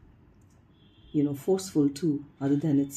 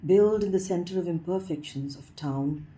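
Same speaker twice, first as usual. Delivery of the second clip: measured poem reading with pauses between phrases; poetry recitation. Acted. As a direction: lift each phrase opening, then let it fall. Reads a poem aloud.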